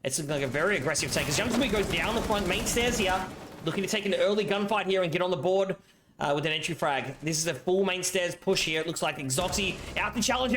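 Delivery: live play-by-play commentary; esports caster. Acted. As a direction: call the round like a caster.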